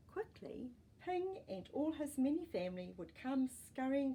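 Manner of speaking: gentle, even storybook reading; story narration. A narrator's reading. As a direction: read it like a bedtime story for kids. Reading a picture book aloud.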